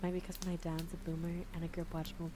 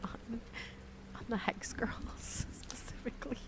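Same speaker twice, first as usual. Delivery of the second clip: whispering; 5 semitones higher, 3 dB quieter than usual. Pretend. Whispered slowly.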